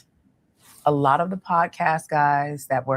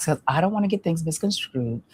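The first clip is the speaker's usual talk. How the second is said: gentle reflecting back. Shown as a demonstration. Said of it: "I like".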